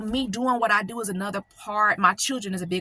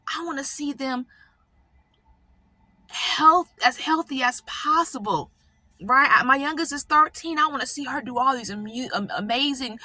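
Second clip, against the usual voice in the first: higher, choked-up voice, slowing on "beautiful things"; holding back real tears as she speaks of her daughter; getting emotional; 4 semitones higher than usual. Real, not acted. Telling viewers she hopes to see her youngest thrive, choked up. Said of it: "I'm getting a little emotional right now".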